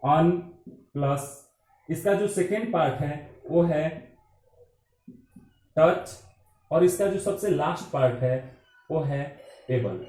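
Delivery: अन, टच, able spoken one by one with long pauses; teacher splitting अनटचेबल into syllables; split into syllables. Shown as a demonstration. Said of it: "इसमें तीन syllable है".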